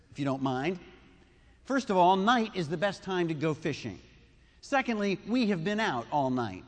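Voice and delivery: Peter counts his points off to the Lord, mildly exasperated; lightly voiced weary fisherman listing reasons; a touch of frustrated Peter. Preacher voicing Peter arguing with Jesus, mildly exasperated. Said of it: "It's as if he's saying".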